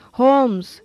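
mild, understated plea; pleading. Acted. Longfellow appeals to Holmes to stay, mildly pleading. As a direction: call the name as a gentle appeal. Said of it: "diye yakardı Longfellow".

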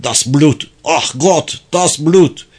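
anguished cries climbing in pitch; broken, pitiful voice. Acted. Wounded German crying out over his blood, pitiful and broken. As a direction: cry out brokenly in short, rising bursts. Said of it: "İnsanı acındıran kırık bir sesti".

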